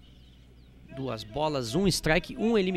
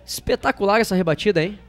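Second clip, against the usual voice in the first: excited; 4 semitones higher than usual. Real, not acted. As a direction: rave about the hit. Cheering the triple.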